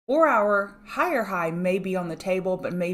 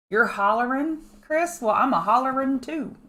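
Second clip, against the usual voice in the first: playful holler; 6 semitones higher, 5 dB louder than usual. Real, not acted. Playful reply to hollering viewer.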